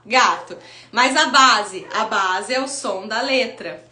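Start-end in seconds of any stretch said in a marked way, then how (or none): 0.1-0.6 put-on child answering. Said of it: "ela vai lá".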